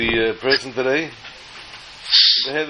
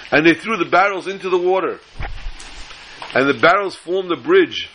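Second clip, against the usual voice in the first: put-on excited boy; 4 semitones higher than usual. Boy excitedly telling his tale.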